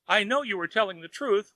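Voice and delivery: high wailing admission; a feathered man wailing to the fairy; wailed. A narrator's reading. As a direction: wail it out in misery. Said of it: "wailed Wang".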